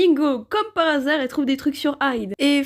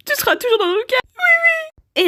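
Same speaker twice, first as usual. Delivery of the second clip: mock solemn; 13 semitones higher, 4 dB louder, much faster than usual. Mock eulogy for Dracula.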